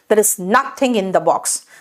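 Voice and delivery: every word spaced out slowly; slow model sentence. Shown as a demonstration. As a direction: say it slowly like a teacher. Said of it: "तो कैसे कहूंगी?". (धीरे-धीरे, साफ़ बोलकर)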